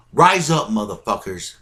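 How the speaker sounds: urgent call to arms; rallying shout. Real, not acted. Rallying viewers, repeats call louder.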